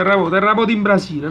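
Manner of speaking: fast joking panic cry; mock alarm. Real, not acted. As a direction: pretend there's an earthquake. Joking alarm after crash.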